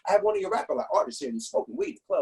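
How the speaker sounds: grovel on the phone, rushed and polite; fawning cop. Retold or imitated. Cop waking the label boss at dawn, fawning. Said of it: "he came like".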